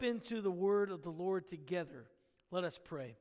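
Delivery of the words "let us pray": "Let us pray." said low and soft, falling; hushed call to prayer. Real, not acted. Pastor quietly invites the congregation into prayer, hushed. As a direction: drop to a soft, reverent hush on "Let us pray.".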